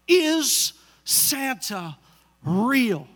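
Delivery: put-on very slow, stretched little girl's question; lightly voiced daughter begging for the truth; drawn-out child plea. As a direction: stretch it out like a pleading five-year-old. Daughter pleading, face pulled down.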